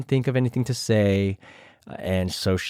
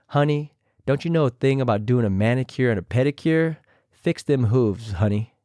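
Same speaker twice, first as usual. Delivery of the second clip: imitating Raven. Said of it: "I tried my best to imitate them".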